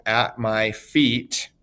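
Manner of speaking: "at my feet" slowly, landing on "feet"; three-syllable foot. Shown as a demonstration. Teacher showing a three one, slow stress on "feet". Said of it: "we have a three one".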